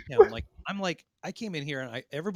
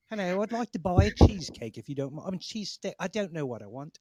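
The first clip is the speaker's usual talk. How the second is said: hammed-up Philly accent, a touch higher; fake Philly accent; 5 semitones higher, 5 dB louder than usual. Ordering a cheesesteak in a mock Philly accent. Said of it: "fake accent sounds better".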